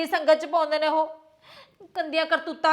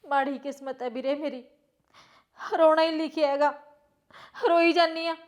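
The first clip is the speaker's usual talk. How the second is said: tearful, halting complaint to a brother; weepy and sorry for herself; crying; 2 semitones lower than usual. Acted. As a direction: lament through tears, with pauses. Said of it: "ਤੂੰ ਰੋ ਕਿਉਂ ਰਹੀ ਹੈ".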